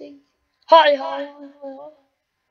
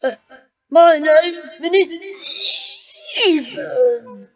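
slow warped voice effect; much slower than usual. Real, not acted. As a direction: drag the words out slowly. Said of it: "I sound a bit weird".

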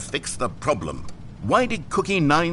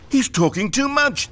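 much higher and louder, a sneering complaint; mocking reviewers; 9 semitones higher, 6 dB louder than usual. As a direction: ape the whining critics. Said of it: "they said".

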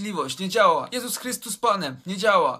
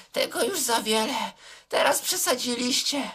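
calm voice; 3 semitones higher than usual. Retold or imitated. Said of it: "mówi opanowanym głosem".

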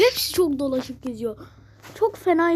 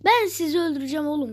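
loud, fast mock threat at the enemies; playful threat; 3 semitones higher, 6 dB louder, faster than usual. Real, not acted. Player taunting the enemy team, loud and fast. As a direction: rush it out like a gamer taunt.

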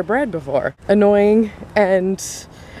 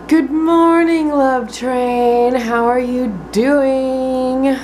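cheery greeting; 5 semitones higher, much slower than usual. Real, not acted.

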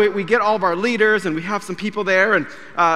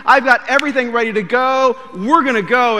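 excited; 3 semitones higher, 4 dB louder than usual. Retold or imitated. Eager newlywed.

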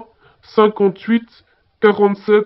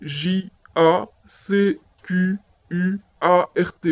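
spelling letter by letter; 3 dB quieter, slower than usual. Acted. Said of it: "Jacquard s'écrit".

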